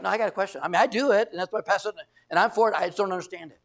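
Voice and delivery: lightly acted doubter; questioning objection. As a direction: hedge while holding on to the objection. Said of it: "two different tones, two different".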